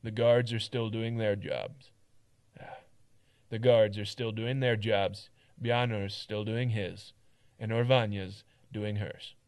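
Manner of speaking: firm, weary guard telling it straight; blunt, tired town guard; gruff guard voice. Acted. Second take of Mart.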